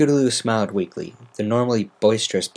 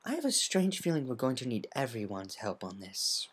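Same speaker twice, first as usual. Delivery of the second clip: muttered; 11 dB quieter than usual. A narrator's reading. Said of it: "Rarity muttered".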